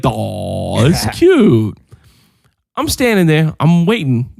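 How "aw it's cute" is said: drawn-out, adoring aww; doting dad. Retold or imitated. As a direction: coo it like a softhearted dad. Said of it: "the dad of me was like".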